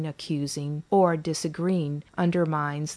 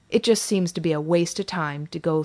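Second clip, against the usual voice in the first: exasperated groaning. Acted. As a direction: groan it out, tired of repeating.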